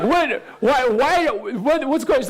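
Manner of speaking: high, rapid disbelieving questions; can't believe what he's hearing; baffled dad. Retold or imitated. Dad questioning his daughter, high and baffled.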